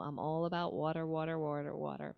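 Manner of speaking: water with a New York accent; a hint of New York on water. Shown as a demonstration. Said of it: "you heard my New York accent on that one".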